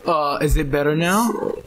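glitchy robotic call audio. Real, not acted. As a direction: voice breaking up like a robot. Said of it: "You are a robot right now".

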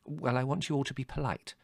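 high, measured motherly instruction; firm. A narrator's reading. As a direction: lay down the rule calmly. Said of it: "said Mother firmly".

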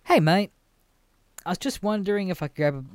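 chirpy door-to-door pitch; mock cheery salesman greeting. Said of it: "And he just goes".

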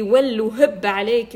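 loud, slow, drawn-out cry of envy; envious exclamation. Retold or imitated. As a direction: stretch it out loud like a nosy neighbour. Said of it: "بيقول لي". (صيحة حسد عالية وبطيئة)

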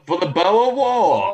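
slow Boston "Boer War"; Boston accent. Pretend. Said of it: "terrible Boston accent".

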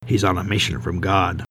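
lightly put-on film character voice; Elwood Blues. A narrator's reading. Tangle jokes to thaw the room, light impersonation. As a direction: give a not-very-good impersonation. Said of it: "in his best Elwood Blues voice".

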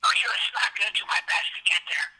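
fast furious grumble; low angry voice. Acted. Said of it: "you're still not whispering".

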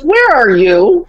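high, drawn-out incredulous question; retold exasperated disbelief; mock bafflement. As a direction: imitate an exasperated dad, stretching each word. Retold dad baffled by mom.

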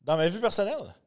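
muffled behind a Batman mask; through a face mask. Real, not acted. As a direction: speak through a costume mask. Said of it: "ça fait spécial de parler avec le masque". (voix étouffée par le masque)

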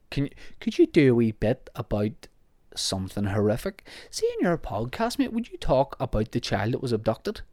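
mock incredulous paraphrase in an altered voice; mocking the request. Mimicking listener's grim request, lightly mocking. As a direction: lightly voice the asker as absurd.

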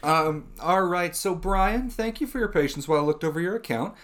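courteous, practised support patter; lightly put-on helpdesk professional; customer service voice. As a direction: play the helpful agent reporting back. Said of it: "hear my customer service voice".

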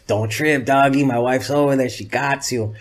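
Toker impression. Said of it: "I always do impression of Toker".

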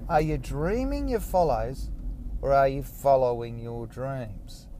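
ponderous reread; slow repeat. Shown as a demonstration. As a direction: repeat it, mulling it over. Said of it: "What did you say?".

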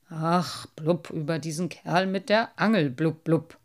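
sulking, spitting out blubs; grumpy old carp. Acted. Carp grumbles.

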